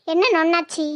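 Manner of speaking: put-on slightly low, grumbling old mother-in-law; lightly voiced granny telling off her daughter-in-law; scolding grandmother. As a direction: complain like an indignant grandmother.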